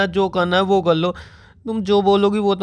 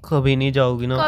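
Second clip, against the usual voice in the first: crying on the phone; 4 semitones lower than usual. Real, not acted. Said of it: "तुम सच में रो रहे हो?".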